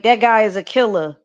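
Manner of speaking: "killer" with its final R dropped to an ah. Shown as a demonstration. Showing Southern slang to the co-host, dropped R. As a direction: say killer as "killa", no R. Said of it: "we'll drop the R".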